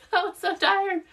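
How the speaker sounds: high, emphatic "I was so tired"; exaggerated tired exclaim. Real, not acted. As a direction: stretch out "so" in a high voice. Exclaims how tired she was.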